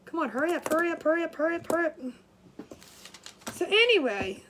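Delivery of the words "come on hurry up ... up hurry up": rapid repeated urging, run together; hurried self-prodding; mock hurrying. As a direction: rush yourself along in a loop. Retelling how she rushed herself.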